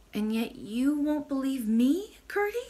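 mildly acted crying reproach; vexed, tearful expostulation. A narrator's reading. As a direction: protest sorrowfully, lifting into a high question. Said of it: "now fairly crying with vexation and sorrow".

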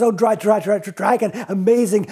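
stammering praise. Acted. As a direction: stumble over dragon in mock amazement.

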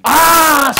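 loud, high gasp of understanding; a startled "ah" of revelation; sudden realisation. Acted. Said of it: "siger du".

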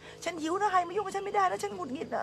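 high, mocking grumpy rant; mock cranky rant. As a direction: parody a hungry grump snapping at everyone. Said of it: "ก็ด่าหมดเลยค่ะ". (ล้อเลียนพี่ที่หิวแล้วหงุดหงิด เสียงสูงประชด)

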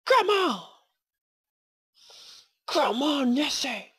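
high, loud calling out; loud, high-pitched exasperated cheer; urging shout. Real, not acted. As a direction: yell to urge the creature on. Urging game creature up stairs.

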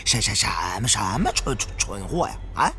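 put-on a young man stammering in exasperation, pitch jumping up; tripping over every word while snapping at him; hot-tempered stammerer demanding a straight answer; stuttering angry companion. Stuttering companion yelling at Liang.

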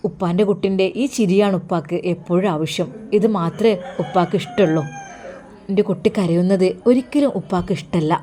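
a lightly voiced father, gentle and doting; father telling his daughter he only wants her smile; fond father. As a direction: speak fondly to the daughter.

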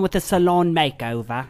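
badly faked Australian accent. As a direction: try an Australian accent and miss it. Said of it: "That was the worst Australian accent".

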